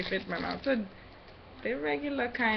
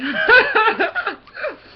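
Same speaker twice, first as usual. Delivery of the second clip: muffled laugh; 11 semitones higher, 9 dB louder than usual. Real, not acted. Laughs with mouth full.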